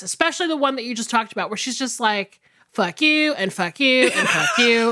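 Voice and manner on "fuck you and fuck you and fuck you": laughing. Retold or imitated. Quoting Eleanor insulting her children.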